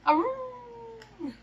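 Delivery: high, long dog howl. Acted. Dog character howls.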